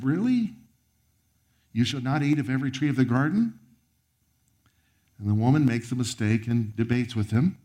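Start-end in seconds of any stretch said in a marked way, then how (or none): 0.0-3.6 high, fast, sneering disbelief; mocking serpent. Preacher voicing the serpent's sly doubt, mocking. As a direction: twist the command into a scoffing question. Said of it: "You see the subtle spin there?".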